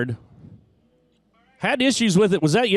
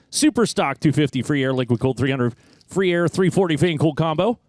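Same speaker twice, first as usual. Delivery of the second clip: laughing through a mouthful. Acted. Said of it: "Boy, that's a mouthful".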